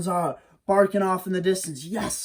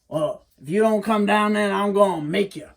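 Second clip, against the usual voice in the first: lightly voiced hairy man threat, louder; a touch of a menacing monster; hairy man threatening Wiley, a bit louder; 5 semitones higher, 6 dB louder than usual.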